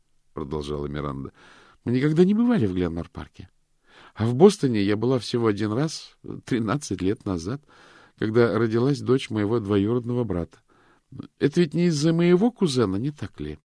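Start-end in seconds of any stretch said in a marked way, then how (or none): 1.8-13.6 higher, louder woman's voice, rambling; a worried woman talking on and on; chatty woman. A narrator's reading. Miranda voiced on the phone.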